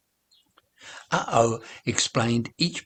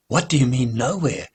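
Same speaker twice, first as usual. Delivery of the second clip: louder, a sudden blurted question; 5 dB louder than usual. Acted. Mahesh blurting a question at the sad old man, surprised. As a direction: push the question out before thinking. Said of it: "Mahesh blurted out".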